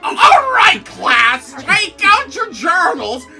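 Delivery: very high, loud teacher shout; shrill teacher. Acted. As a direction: command the whole class. Teacher voiced.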